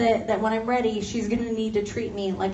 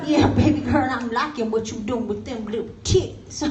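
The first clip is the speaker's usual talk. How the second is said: catcaller. Retold or imitated. Guy catcalling again.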